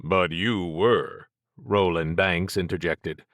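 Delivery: a hint of a hard-nosed cop pressing; lightly voiced, pointed questioning; understated bad cop probing. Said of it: "Roland was just playing bad cop".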